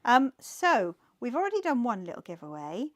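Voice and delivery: firm, clear classroom announcing; teacher voice. Real, not acted. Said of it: "my teacher voice is on tonight".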